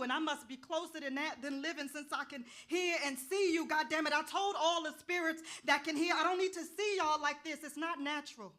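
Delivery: loud, exasperated yelling at the spirits; fed up, let it rip at them; shouting in frustration; angry outburst. Acted. Arguing with the ghost.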